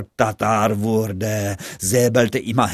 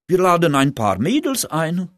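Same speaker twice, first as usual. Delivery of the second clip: excited; 8 semitones higher than usual. Acted. Friends plan party excitedly.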